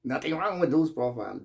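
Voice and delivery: a mild, scornful repeat of their excuse; mocking echo. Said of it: "they say".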